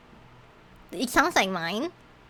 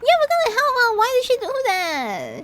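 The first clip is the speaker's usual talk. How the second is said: much higher mock outrage; indignant echo; 12 semitones higher than usual. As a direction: echo the betrayal, stunned. Echoing outrage in character.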